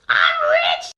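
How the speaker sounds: loud, deep gleeful cry of joy; booming I'm rich; excited thought. Retold or imitated. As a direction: gloat like you just struck it rich. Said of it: "my thoughts were".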